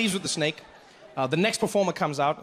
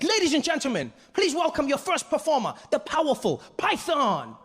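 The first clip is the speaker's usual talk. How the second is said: high, excited announcer voice; hammed-up showman introduction; Deng Basan; 9 semitones higher than usual. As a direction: present the act grandly, stretching the finish. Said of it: "Deng Basan's really excited".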